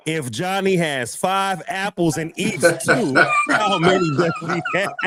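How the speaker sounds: mock-furious father grilling his kid; imitating an enraged dad with a belt. Dad with belt repeats question.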